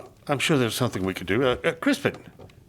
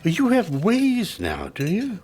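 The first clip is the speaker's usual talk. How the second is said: mocking; 5 semitones higher than usual. Father mocking daughter at dinner.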